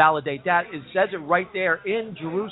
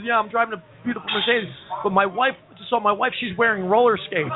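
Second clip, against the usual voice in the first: mock crying man; 4 semitones higher than usual. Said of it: "He goes".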